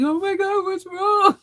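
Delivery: put-on high, cooing baby talk to the puppy; worried owner cooing at a crying puppy; mock alarmed cooing. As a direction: coo up high like soothing a whimpering pet. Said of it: "I'll be like".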